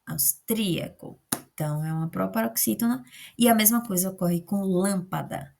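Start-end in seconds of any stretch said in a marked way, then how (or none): 0.1-1.2 "austríaco" said slowly, leaning on "trí"; slow, careful "austríaco" with a long "trí"; stressed syllable drawn out. Shown as a demonstration. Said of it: "é importante fazer a divisão silábica".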